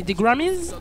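put-on Grammys drawn out slowly in a playful American accent; lightly put-on American accent on Grammys; mock American accent. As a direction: stretch Grammys the American way, half joking. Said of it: "j'essaie d'avoir mon accent un petit peu américain".

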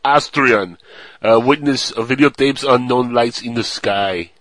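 lightly put-on Austrian accent; a hint of comic Austrian accent. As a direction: read the headline with a mock Austrian accent. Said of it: "the way you would expect an Austrian to say it".

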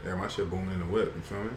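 laid-back street swagger; swaggy voice. Shown as a demonstration. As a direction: say it cool and swaggy, like you own it. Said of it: "I say it more swaggy".

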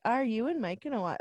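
soft, lightly encouraging question; mild encouragement. Retold or imitated. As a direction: gently nudge with the question, keeping it soft. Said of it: "I was kind of encouraging you".

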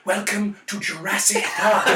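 slow English accent, imitated; Richard Attenborough. Panellist showing the actor's second, completely different accent, slow English. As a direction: draw the welcome out in a grand English accent. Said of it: "two completely different accents".

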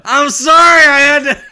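high, loud protest through laughter; helpless yelled apology; laughing loud apology. Real, not acted. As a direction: cry it out, cracking up. Laughing apology for spoiling the bit.

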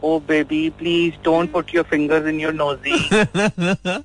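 put-on slow, sugary English baby talk to a toddler; posh anglicized parent. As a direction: coo it like a fussy burger mom. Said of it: "बच्चे को कहते हैं".

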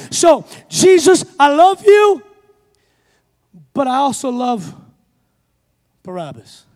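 high, loud voice of God the Father; voiced God calling out, loud and high; God's voice. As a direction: cry out the Father's love. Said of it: "the heavenly Father that he is, said".

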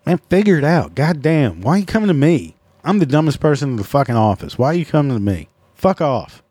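fed up, pushing the coworker away; exasperated rant. Acted. To a coworker who keeps asking for help, exasperated rant.

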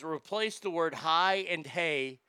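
slow, prim etiquette advice; the etiquette lady laying down her rule, slowly; mock etiquette lady. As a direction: read out the rule slowly, primly. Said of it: "she says".

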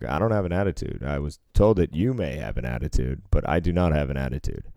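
fast, snide denial; complete attitude. Retold or imitated. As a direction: deny it with full sass. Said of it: "With a complete attitude, I said that".

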